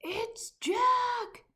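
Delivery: high, loud terrified bellow. A narrator's reading. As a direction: blast it out in panic. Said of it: "bellowed the flesh lump eater".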